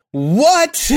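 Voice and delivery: high squeaky disbelieving what; shocked what. Retold or imitated. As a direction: shriek it in disbelief. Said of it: "but I was like".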